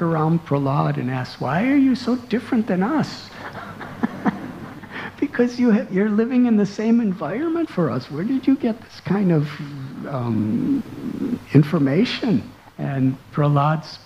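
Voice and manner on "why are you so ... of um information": put-on children's voices. Children asking Prahlad, voiced high.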